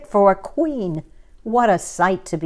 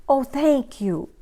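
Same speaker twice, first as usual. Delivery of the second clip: chirped; 6 semitones higher than usual. A narrator's reading. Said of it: "chirped Gertrude McFuzz".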